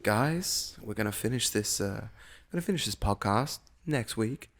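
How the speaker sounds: smooth radio host voice. Pretend. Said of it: "I'll get my radio host voice out".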